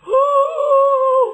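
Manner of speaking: high, loud drawn-out howl; mock dog howl. Preacher mimicking the dog at the funeral, loud high howl. Imitating the dog howling again.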